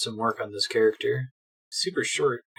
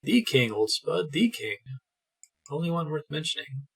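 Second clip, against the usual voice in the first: posh English; 3 semitones higher than usual. Acted. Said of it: "Why do you talk so strangely?".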